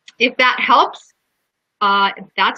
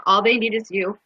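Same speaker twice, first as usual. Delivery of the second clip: mild, understated echo of crying; retold tearful reaction. Speaker retells reading the mural while crying, only lightly tearful. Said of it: "Now I'm crying. I'm going".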